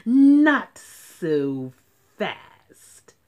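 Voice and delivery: loud then hissed stern warning. Acted. Strict new teacher stopping the unruly class. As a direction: cut them off with a mean hiss. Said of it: "hissed an unpleasant voice".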